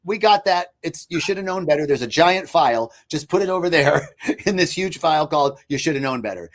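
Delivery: lightly hammed-up nervous system filing it away; inner voice mocking. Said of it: "my nervous system went".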